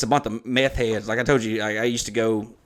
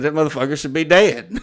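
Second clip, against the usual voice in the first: angry; 5 semitones higher, 5 dB louder than usual. Retold or imitated. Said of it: "He's so pissed".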